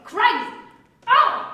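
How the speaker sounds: high, loud shriek. Acted. Wife shrieks in the quarrel.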